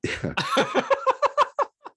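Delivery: high-pitched laugh breaking out; real burst of laughter. Real, not acted. Retelling the jacket reply, bursting into high laughter.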